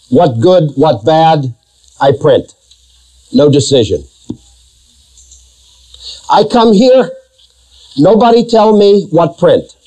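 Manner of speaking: preacher mimics a Russian editor in light Russian accent. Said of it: "He said in his Russian accent".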